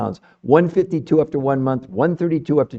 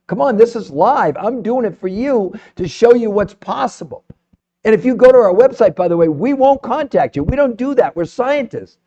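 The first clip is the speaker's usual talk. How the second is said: higher, pumped sales pitch; fired up; 4 semitones higher than usual. Real, not acted. Host pitching the free coaching to live viewers, fired up. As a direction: hype the free offer to the chat. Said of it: "I'm all fired up now".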